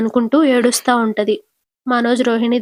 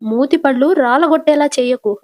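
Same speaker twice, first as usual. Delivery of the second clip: firm, slightly raised scolding; mild mock threat to her son; a touch of a stern mother-in-law; stern warning; 3 semitones higher than usual.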